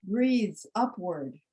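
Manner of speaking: slow, measured poem reading with long pauses; poetry reading. Acted. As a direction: let each image settle, unhurried. Reads her poem aloud.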